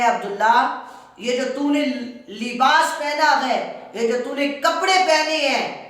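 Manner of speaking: high, loud scolding demand; angry uncle. Retold or imitated. Uncle demanding even the clothes back, angry loud scolding. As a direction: keep up the uncle's rage. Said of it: "اور چچا پھر کہتا ہے".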